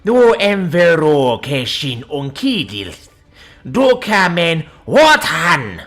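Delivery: slow, rasping monster shout; guttural war-leader proclamation, drawn out. A narrator's reading. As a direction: bellow it out slowly from the throat like a monster. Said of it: "in a rasping, guttural monster voice".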